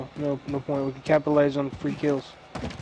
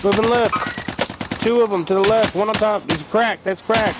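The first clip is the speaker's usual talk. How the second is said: urgent raised callout; combat callout; 5 semitones higher than usual. Real, not acted. Calling out enemy positions in firefight.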